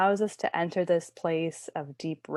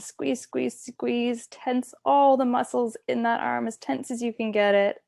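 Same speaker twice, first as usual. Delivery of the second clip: higher-pitched, rhythmic urging; gently insistent repeated cue, pitched up; urging tension; 5 semitones higher than usual. Shown as a demonstration. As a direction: coach them to hold the squeeze. Coaching muscle tensing before release.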